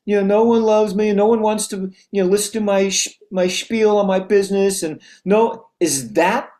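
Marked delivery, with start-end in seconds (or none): 0.0-4.8 self-pitying whine. Retold or imitated. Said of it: "Would the best version of you at this moment go".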